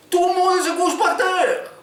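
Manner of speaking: very high, slow, loud yell in a hammed-up Arabic accent; overdone Arabic accent. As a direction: overdo the Arabic accent until no one understands. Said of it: "il a exagéré l'accent".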